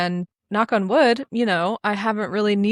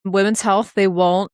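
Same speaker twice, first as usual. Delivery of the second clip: indignant; 3 semitones higher, 6 dB louder than usual. Real, not acted.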